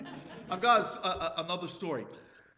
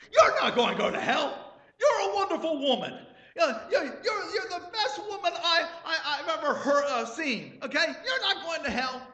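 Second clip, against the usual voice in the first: higher, loud, insistent comfort; loud reassurance; 12 semitones higher, 6 dB louder than usual. Retold or imitated. Husband loudly reassuring his crying wife. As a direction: talk her out of it, half laughing.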